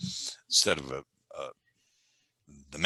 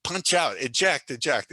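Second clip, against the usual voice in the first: urgent mock command; 8 semitones higher than usual. Coach silently screams for his failing student. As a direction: yell it like a pilot bailing out. Imagined pilot bail-out urging.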